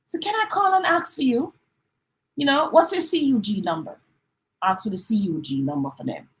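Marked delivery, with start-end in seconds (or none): 0.0-4.0 polite phone request. Shown as a demonstration. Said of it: "So you have to say".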